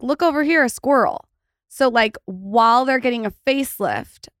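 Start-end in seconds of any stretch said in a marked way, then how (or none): 0.0-1.2 higher, louder teasing call-out; playful mock call. Shown as a demonstration. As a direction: call it out like spotting a squirrel. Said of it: "It means, like".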